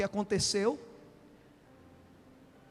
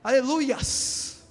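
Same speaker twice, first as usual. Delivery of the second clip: mock pentecostal plural praise; much slower than usual. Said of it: "eles gostam de fazer tudo no plural".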